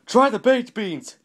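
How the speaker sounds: slow, loud, high holler; shout. A narrator's reading. Mister Yell advising an undecided shopper, shouting slowly. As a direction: shout the advice, stretching the words. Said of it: "Mister Yell shouted".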